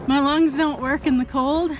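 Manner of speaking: winded and puffing; catching her breath as she talks. Real, not acted. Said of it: "I'm so out of breath right now".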